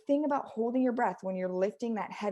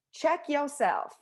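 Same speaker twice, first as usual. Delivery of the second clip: "check yourself" drawn out slow and higher; emphatic warning; 5 semitones higher, slower than usual. Acted. Repeats catchphrase with emphasis.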